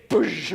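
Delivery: explosive door-slam noise; imitated door slam. Showing the youth how door slammers act, imitated slam. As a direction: mimic a slam with a burst of air. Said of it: "You slam the door".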